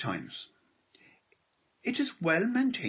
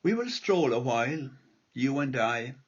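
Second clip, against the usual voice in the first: lilting irish storyteller. Acted. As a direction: recite the poem gently, like a storyteller. Reads his poem aloud.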